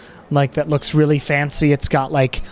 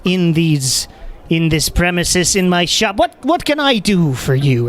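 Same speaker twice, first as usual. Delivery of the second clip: customer service voice; 3 semitones higher than usual. Acted. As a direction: put on a bright sales voice. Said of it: "all cheery".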